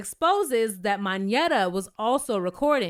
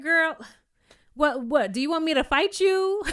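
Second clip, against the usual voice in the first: mock threat; 5 semitones higher than usual. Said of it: "Kenya's like".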